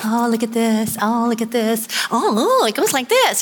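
put-on excited toddler. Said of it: "you know what toddlers are like".

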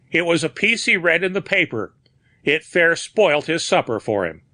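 a hint of an Irish skipper explaining; old sea captain. A narrator's reading. Dolan answers, a bit evasive.

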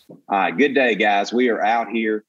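relaxed celebrity impression, easy greeting; Matthew McConaughey. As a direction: lightly imitate an easygoing Texan actor. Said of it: "do an impression of Matthew McConaughey".

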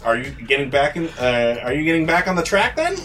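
chummy host. Acted. GM voices the serpent host.

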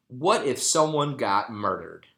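slow mock Jamaican accent on a worried question; a friend's mom in a light Jamaican accent, drawing it out slowly; imitating Jamaican accent. Buddy's mom scolding the teens, mock Jamaican accent. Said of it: "in her Jamaican accent".

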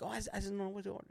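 put-on high, quick girl voice; mock someone fretting over a menu; imitated dithering girl. Boyfriend imitating his girl who can't order, high quick dither.

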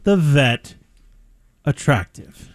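hushed teasing question, drops low at the end; whispered question. Real, not acted. Host teasing co-host about the vet in a whisper. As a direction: whisper it slyly.

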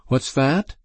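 high rising innocent query; feigned not hearing. A narrator's reading. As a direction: ask as if you missed it, pitch rising. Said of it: "pretending not to hear".

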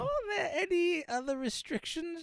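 very high, put-on genteel lady voice; drawn-out, high, affected politeness; fussy genteel lady. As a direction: ask primly in a high mock old-fashioned lilt. Puts on the dear-lady Southern voice.

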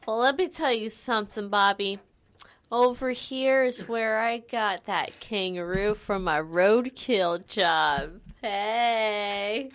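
slow, drawn-out Southern yarn; Southern accent. Acted. Telling Bobby about the roadkill kangaroo, Southern accent. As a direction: put on a hammed-up Southern accent. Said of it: "I don't know why I sound Southern".

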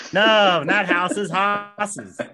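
high, emphatic New Orleans correction; insistent New Orleans teacher, "horses" without the R; New Orleans accent. Retold or imitated. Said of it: "this really funky accent".

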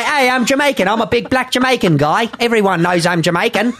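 Jamaican accent. Shown as a demonstration. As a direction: demonstrate a broad fake Jamaican accent. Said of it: "There's a Jamaican accent".

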